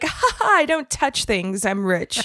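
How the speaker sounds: hammed-up snob, half-hearted fake posh; terrible rich accent. Podcast host mocking a rich snob, light fake posh accent. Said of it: "we both have terrible rich ac".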